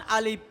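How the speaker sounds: আলিফ with both lips shut at the end, like "alip"; আলিফ ending in a stopped p instead of f; mispronounced আলিফ. Shown as a demonstration. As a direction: close the lips on the last sound of আলিফ, making it a p. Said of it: "মিলিয়ে দিবে".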